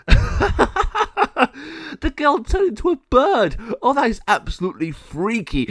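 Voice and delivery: high, loud, slow laughing gargoyle voice. Acted. Gargoyle laughing at the girl turned bird, high and loud. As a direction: laugh through the words like a goofy monster. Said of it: "El Jago burst out laughing and said".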